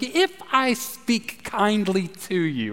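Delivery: slow, sugary passive-aggressive "kindly"; mock sweet tone. Mimicking his wife's loaded, sweet-sounding request. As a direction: drawl it with fake sweetness. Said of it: "she's like".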